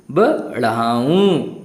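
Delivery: बढ़ाऊं said slowly with the final ऊं nasalised through the nose; nasal ऊ demo. Shown as a demonstration. Teacher slowly models बढ़ाऊं for pupils. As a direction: stretch out बढ़ाऊं, nasal ending. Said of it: "इस प्रकार से आप अनुनासिक शब्दों का उच्चारण करेंगे".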